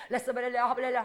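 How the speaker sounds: quick babbled syllables with a laugh; tongues imitation. Preacher imitating a member praying in tongues, laughing. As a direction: rattle off the tongues playfully. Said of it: "방언 기도".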